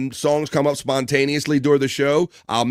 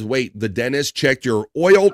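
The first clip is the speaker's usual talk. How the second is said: laughing; slower than usual. Real, not acted. Reading a joke comment, amused.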